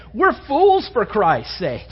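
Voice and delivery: fools for Christ stretched out slowly; slow emphatic quote. Shown as a demonstration. Preacher reading Paul slowly to his church. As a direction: lean on each word, slow. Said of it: "that's said in, not as in a statement".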